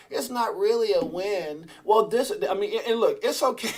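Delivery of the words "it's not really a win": slow, dismissive mock voice; lightly put-on scoffing voice; mocking the haters. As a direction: drawl it out like a doubting hater. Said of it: "You know what they do every time?".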